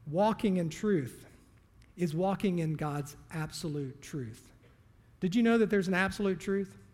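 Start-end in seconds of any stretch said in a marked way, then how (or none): 0.1-4.5 slow emphatic. Acted. Preacher stresses key phrase.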